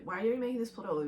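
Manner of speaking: very fast mock whine; mocking Hughes brothers. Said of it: "the Hughes brothers are like".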